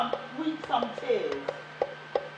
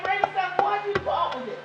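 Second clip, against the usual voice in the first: fast, higher pushy question; wind voice; 6 semitones higher, faster than usual. Acted. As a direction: needle her quickly. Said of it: "the wind said".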